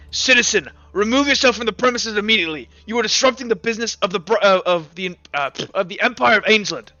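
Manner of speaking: officious inquisitor's order. Acted. Inquisitor to citizen blocking Empire business, commanding.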